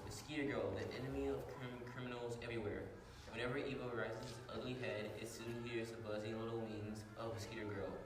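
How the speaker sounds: dramatic radio narration; radio serial narration. Acted. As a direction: narrate like an old radio show.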